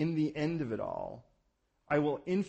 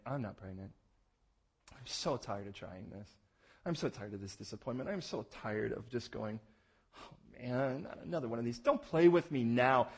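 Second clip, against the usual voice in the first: weary disappointment. Retold or imitated. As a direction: sigh out the letdown. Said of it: "it became evident".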